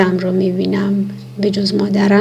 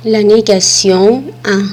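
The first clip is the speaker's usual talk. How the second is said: slow lesson heading; 5 dB louder, much slower than usual. Shown as a demonstration. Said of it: "reads lesson heading slowly".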